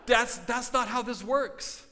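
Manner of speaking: loud, high, slow correction; emphatic rebuttal. Real, not acted. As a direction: push back forcefully, word by word. Emphatically rebutting the voiced churchgoer.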